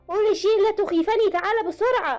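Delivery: hammed-up tearful calling; mock wailing. A narrator's reading. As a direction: beg him in a put-on cry. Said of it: "وعيطت وبربرت".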